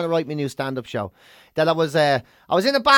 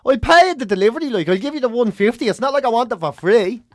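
indignant customer; 5 semitones higher, 4 dB louder than usual. Retold or imitated. Customer arguing delivery.

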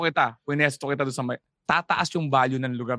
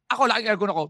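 mock boast; 5 semitones higher, faster than usual. Shown as a demonstration. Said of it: "Pag sinabi kong".

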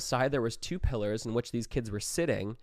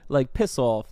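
loud mock Australian defiance; Australian accent; 3 semitones higher, 6 dB louder than usual. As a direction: swear like a cocky Australian. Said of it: "committed to the Australian accent".

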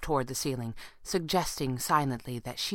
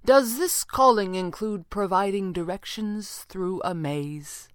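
slow, higher-pitched questioning; restrained incredulity; 5 semitones higher, slower than usual. A narrator's reading. Red panda questions the stranger's guide, trying not to sound incredulous. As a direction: hold back disbelief, spacing the words out. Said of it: "tried very hard not to sound incredulous".

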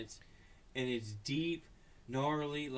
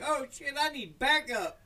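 panicked neighbor dog; 11 semitones higher, 6 dB louder than usual. Retold or imitated. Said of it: "neighbor dog's in there like".

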